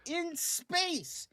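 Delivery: very high, slow, swooping wonder; exaggerated mock amazement. Co-host comparing it with the Supergirl trailer, hammed-up amazement. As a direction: draw it out in hammed-up astonishment.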